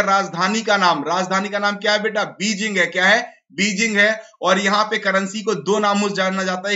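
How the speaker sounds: normal talking voice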